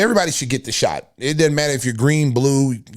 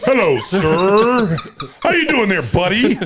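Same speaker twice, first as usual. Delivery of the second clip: mock cheery greeting; 5 semitones higher, slower than usual.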